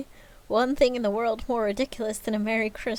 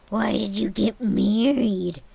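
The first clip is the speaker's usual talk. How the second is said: put-on slow scornful old man; 6 dB louder, slower than usual.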